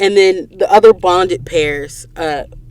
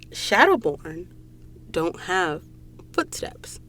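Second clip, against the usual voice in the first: whispered reveal; 11 dB quieter, slower than usual. Real, not acted. Creepy reveal.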